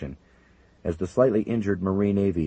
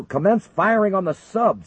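barked order; 14 semitones higher, 7 dB louder than usual. Acted. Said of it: "Simpson ordered".

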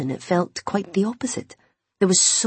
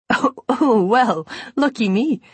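high, giggly mock-flattered flutter; giggly delight; 6 semitones higher, 4 dB louder than usual. A narrator's reading. Imogen reacts to Owen's compliment, giggly and high. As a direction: raise the pitch and let amusement bubble through. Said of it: "she giggled".

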